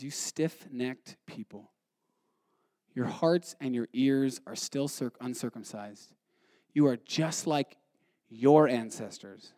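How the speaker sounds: low, hushed and slow, each word weighed; quiet, slow rebuke. Acted. Stephen confronting the council, hushed and slow. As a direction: lean in and condemn them softly.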